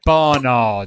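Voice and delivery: "Barnard" as BAA-nad, no Rs; "Barnard" non-rhotic, first syllable long; British pronunciation. Shown as a demonstration. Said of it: "It's like".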